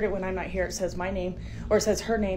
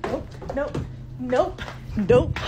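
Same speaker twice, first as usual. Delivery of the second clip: panicked nope; 4 semitones higher, much slower than usual. Real, not acted. Fleeing scared from the noise.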